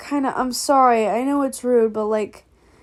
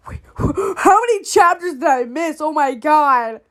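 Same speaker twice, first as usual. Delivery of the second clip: laughing; 5 semitones higher, 6 dB louder than usual. Real, not acted. Reacting to a plot twist.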